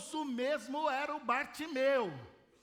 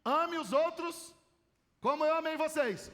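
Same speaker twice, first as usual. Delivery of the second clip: "Ame" drawn out slow, raised and louder; quoted commandment, slow and emphatic; 3 semitones higher, 4 dB louder than usual. Acted. Preacher to congregation, reading out the commandment slowly. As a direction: proclaim the commandment slowly, word by word.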